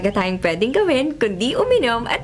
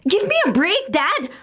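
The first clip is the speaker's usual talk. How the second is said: exasperated outburst; 4 semitones higher, slower than usual. Acted. Daughter fed up with her strict father, exasperated. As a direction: throw "Give me a break" at him in frustration.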